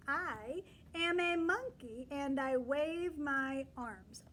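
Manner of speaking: slow, loud storybook read; reading to children. Shown as a demonstration. Teacher reading the page aloud slowly to the class. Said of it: "The next page says".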